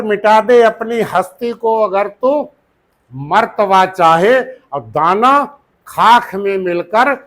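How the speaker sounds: slow, measured couplet recital; teacher reciting a verse slowly to the class; poem recitation. Acted. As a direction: draw out each phrase like reciting a sher.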